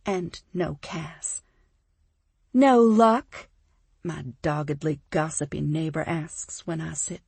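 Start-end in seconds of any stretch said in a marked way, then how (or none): 2.5-3.5 eager gossip. Acted. Gossipy neighbor asks eagerly.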